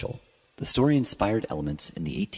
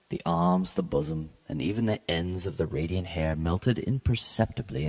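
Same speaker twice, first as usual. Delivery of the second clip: measured, lightly dramatic reading of a gothic tale; story narration. A narrator's reading. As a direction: read it like a classic gothic story, unhurried. Reads Poe story aloud.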